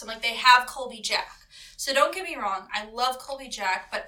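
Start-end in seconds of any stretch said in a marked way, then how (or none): 0.2-1.3 all-caps excitement. Retold or imitated. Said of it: "like, all caps".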